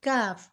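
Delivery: کاف with light k and open "aa"; thin k. Shown as a demonstration. Teacher setting it against its twin, کاف thin. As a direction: keep کاف thin and unrounded. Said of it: "پڑھا جاتا ہے باریک".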